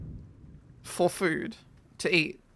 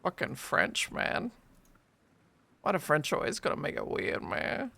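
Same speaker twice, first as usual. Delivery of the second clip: soft, muttered complaint; mock grumble; 6 dB quieter than usual. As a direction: grumble it under your breath.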